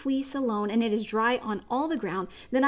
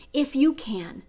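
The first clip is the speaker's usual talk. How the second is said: pleading father; 3 semitones higher than usual. Retold or imitated. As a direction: ask it as a desperate father. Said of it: "And Jesus says, "If you can?".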